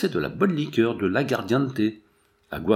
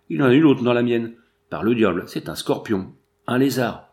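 louder, agitated outburst; alarmed discovery; 4 dB louder than usual. Acted. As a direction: blurt it out in horrified disgust. Drinker finds creatures in cup.

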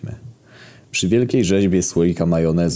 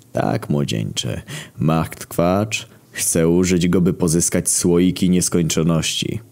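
put-on slow old sage; slower than usual. Old sculptor explains slowly.

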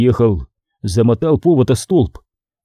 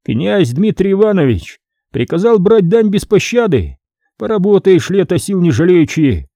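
raised, menacing clerk's voice; mild threat from the scribe; threatening; 6 semitones higher than usual. Acted. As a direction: warn him coldly. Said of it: "Ответил он Ваське с угрозой".

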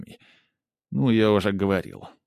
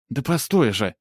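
flustered; 3 semitones higher than usual. Acted. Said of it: "всполошилась Полина".

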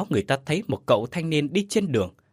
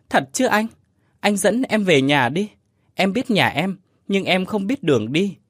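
put-on high child voice, pleading; a small kid begging to be taken home; eager little child; 6 semitones higher, 3 dB louder than usual. Child ghost voice. (giọng em bé cao, năn nỉ)

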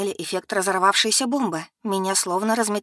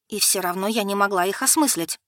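ordinary delivery

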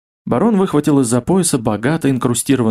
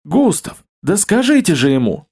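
high, frantic fat man's plea; desperate plea; 6 semitones higher than usual. Acted. Fat man begging Gustav to stop the baron, frantic high plea. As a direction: beg urgently for help. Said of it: "воскликнул толстяк".

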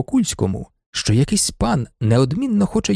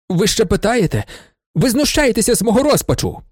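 higher, pleading and hurt; despairing outburst; 7 semitones higher than usual. A narrator's reading. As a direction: cry out at his mockery. Marushevych in despair. (розпачливий вигук)

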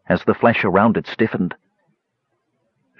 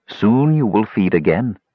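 purring. Acted. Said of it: "She purred".

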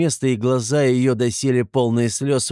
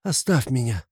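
tired repeat; 4 semitones higher than usual. A narrator's reading. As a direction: say it again, drained. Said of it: "вскричал он вдруг в судорожной тоске".

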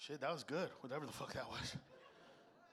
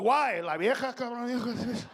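loud jailed rant; 3 semitones higher, 5 dB louder than usual. Pretend. Jailed, yelling the excuse.

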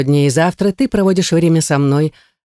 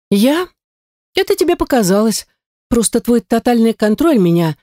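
plain reading voice

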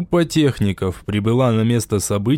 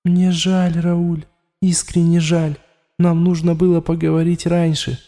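a sincere apology from inside; regretful inner voice; 6 semitones higher than usual. A narrator's reading. The voice in Raul's head apologises to him, regretful.

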